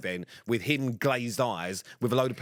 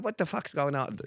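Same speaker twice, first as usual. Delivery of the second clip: badly attempted accent, pitched higher; terrible Maura accent; 4 semitones higher than usual. Friend coming over to see what's happening, terrible put-on accent. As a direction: do a bad imitation of her accent. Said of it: "sorry, that was a terrible accent".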